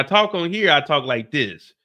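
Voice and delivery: lifted, punchy on-air voice. Shown as a demonstration. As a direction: pitch it up a bit to entertain. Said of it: "It's a little bit higher pitched".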